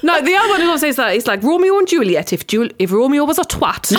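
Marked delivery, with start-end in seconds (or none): 1.4-4.0 amateur Geordie sliding into Welsh; Geordie accent attempt. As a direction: attempt Geordie, let it drift a bit Welsh. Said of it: "That sounded a bit Welsh".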